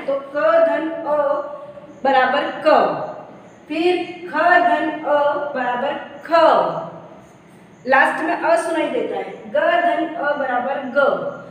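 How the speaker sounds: slow lilting chant of क धन अ, ख धन अ, ग धन अ; teacher chanting the syllable sums so students hear the अ; slow sing-song demo. Shown as a demonstration. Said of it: "क के बाद में अ सुनाई दे रहा है ना".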